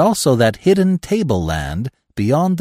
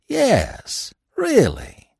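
put-on much higher, odd sullen voice for the old man; sullen old trapper; 13 semitones higher, much slower than usual. A narrator's reading. Old trapper insisting to the narrator, high and sullen. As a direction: insist it, sulky and stubborn. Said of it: "he repeated sullenly".

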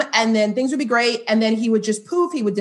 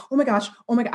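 put-on Valley Girl; faster than usual. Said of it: "I sound like a Valley Girl".

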